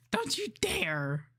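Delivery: slow hissing mock warning; whispered threat. Streamer mock-threatening a viewer in a whisper. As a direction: dare him not to, playfully.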